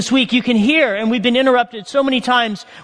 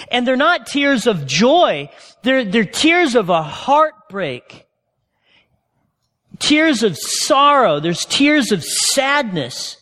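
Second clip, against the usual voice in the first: slow grave emphasis; slower than usual. Acted. Slow grave preaching on tears.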